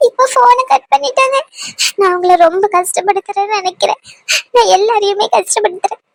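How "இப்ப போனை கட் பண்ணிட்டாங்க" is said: tearful hurt. Acted. Anu hurt after call cut.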